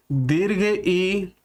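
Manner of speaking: ई stretched out very long and slow; drawn-out long ई; long vowel demo. Shown as a demonstration. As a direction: hold the ई to show it is long. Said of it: "तो ये ह्रस्व ई".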